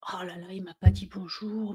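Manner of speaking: anxious half-whisper to herself, fretting; worried self-talk. Retold or imitated. Coach acting out her inner worry at the boss's silence, in a breathy anxious whisper.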